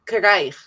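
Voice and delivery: "Krijg" with a clear R after the k; with a rolled R. Shown as a demonstration. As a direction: stress the R in "Krijg". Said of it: "with the R".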